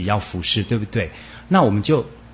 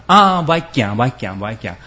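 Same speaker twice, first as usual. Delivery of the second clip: mock whining; 3 dB louder than usual. Acting a stumbling whiner.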